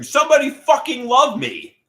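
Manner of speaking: high, loud yell for love; pretend scream. Imagined scream in a crowded movie theater. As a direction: yell it like you're desperate for love. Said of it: "crowded movie theater and scream".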